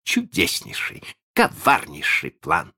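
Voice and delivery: rapturous sidekick's praise; delighted exclamation. A narrator's reading. Smee praising Hook's cunning plan, with delight. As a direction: gush in delighted admiration. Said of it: "слушал его с восторгом".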